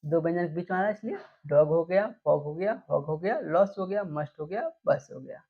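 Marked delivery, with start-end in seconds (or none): 1.5-1.7 डॉग with a short open o vowel. Shown as a demonstration. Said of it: "ओ करेंगे". (डॉग में खुला ऑ स्वर)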